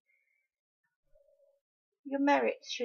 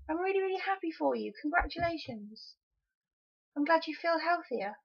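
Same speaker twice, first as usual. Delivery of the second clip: sincere congratulations; 3 semitones higher than usual. Shown as a demonstration. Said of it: "Let's put the emphasis on health".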